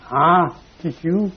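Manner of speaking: slow, high sneeze-like "Ah, tissue"; silly clown. Shown as a demonstration. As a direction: draw it out like a sneeze. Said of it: "That's circus clown trick".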